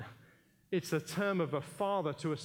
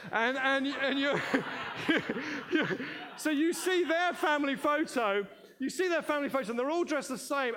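laughing; 7 semitones higher, 3 dB louder than usual. Real, not acted. Laughing, telling funny photo story.

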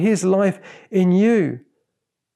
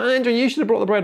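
quick, higher mock complaint; whining; 4 semitones higher, faster than usual. Disciple blames another for no bread, whining. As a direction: pass the blame in a light whine. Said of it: "they're kind of whining".

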